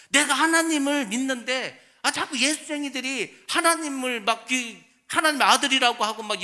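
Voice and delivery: half-acted outrage as Saul the persecutor; Paul. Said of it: "사도 바울이 계속 그 얘기한 거".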